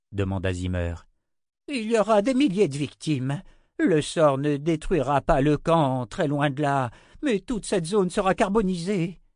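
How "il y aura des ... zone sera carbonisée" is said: high, loud, grave warning; alarmed old wizard. Acted. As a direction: press the danger on them urgently.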